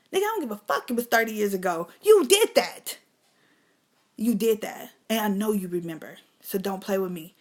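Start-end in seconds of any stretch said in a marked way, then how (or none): 0.1-1.9 heated retort. Acted. Angry retort to uncle. 2.0-3.0 loud, high accusing yell; shout. Acted. Yelling at the abusive uncle that he did it.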